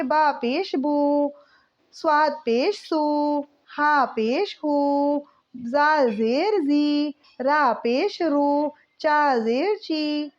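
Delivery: each letter, vowel mark and sound read out slowly; patient, drawn-out spelling chant; slow syllable drill. Shown as a demonstration. Teacher reads syllable drill.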